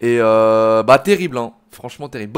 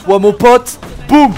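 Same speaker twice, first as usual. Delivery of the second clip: loud, raised taunt as the blow lands; loud attack call; 8 semitones higher, 10 dB louder, slower than usual. Real, not acted. Streamer attacking a game character, loud triumphant call-out. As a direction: call out the hit with punch.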